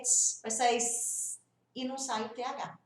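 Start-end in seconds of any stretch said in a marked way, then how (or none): 0.0-0.4 tss instead of TH; wrong hiss for TH. Shown as a demonstration. 0.8-1.4 ss instead of TH; wrong hiss for TH. Shown as a demonstration.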